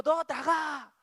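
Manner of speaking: short high, loud yell; acted angry parent; parent's shout. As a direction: throw the child out with a shout. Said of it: "소리를 쳤다고 합시다".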